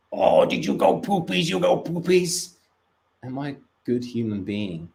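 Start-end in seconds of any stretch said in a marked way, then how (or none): 0.1-2.5 put-on higher, airy baby talk; high, breathy baby talk to the dog. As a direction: coo at the dog about its poop. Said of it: "I'm like".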